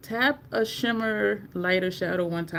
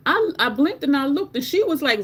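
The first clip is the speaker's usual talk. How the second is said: ordinary talk, nothing marked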